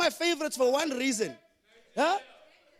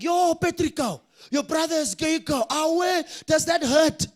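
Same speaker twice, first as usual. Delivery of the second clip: mock teasing friends; 5 semitones higher, slower than usual. Guys tease narrator.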